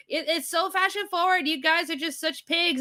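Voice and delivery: high-pitched huffy imitation; mock uppity. Streamer mimicking the other side of the argument, mock uppity. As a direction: put on an offended commenter, pitched well up. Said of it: "people getting uppity, being all like".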